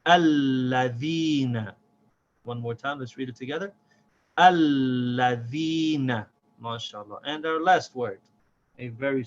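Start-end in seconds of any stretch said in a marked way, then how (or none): 0.1-1.7 ALLADHINA slow and joined, long l and long ee; smooth, without stopping. Shown as a demonstration. Teacher reading the word together, smoothly. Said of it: "say this word smoothly without stopping". 4.4-6.3 ALLADHINA drawn out, long l and long ee; smooth, without stopping. Shown as a demonstration. Teacher reading it together one more time, smoothly. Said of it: "say this word smoothly without stopping".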